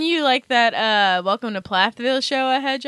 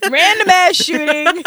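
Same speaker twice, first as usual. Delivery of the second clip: mocking repeat; 4 semitones higher, 3 dB louder, slower than usual.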